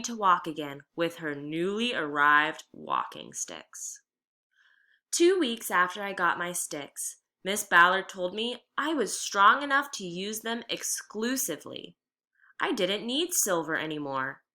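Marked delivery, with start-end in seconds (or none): 5.1-14.4 reading a chapter aloud to the class; steady, clear read-aloud voice; story narration. A narrator's reading. Reads chapter fourteen aloud.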